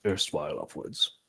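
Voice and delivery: slow, measured, soft revelation; lightly voiced character, pausing for weight; grave in-character telling. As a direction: share ancient lore quietly, with long pauses. Player character reveals ancient tombs.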